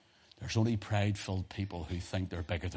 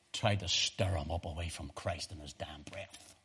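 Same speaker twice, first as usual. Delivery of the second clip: whispered; 3 semitones lower, 4 dB quieter than usual. Real, not acted. Preacher hushes the bitter point.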